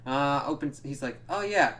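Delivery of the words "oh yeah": high, loud exclamation; mock enthusiasm. He reacts at an opened door, mock enthusiasm. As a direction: pitch it up and punch it out.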